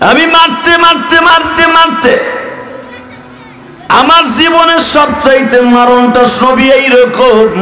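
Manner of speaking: high, chanted cry of confession; anguished preacher's chant; impassioned lament. Acted. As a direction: wail it out in sing-song, pitched high. Preacher voices killer's anguished confession.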